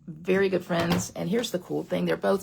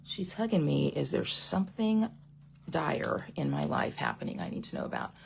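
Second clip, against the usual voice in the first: worried inner voice; 3 semitones lower, 6 dB quieter than usual. Retold or imitated. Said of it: "So you need to ask yourself".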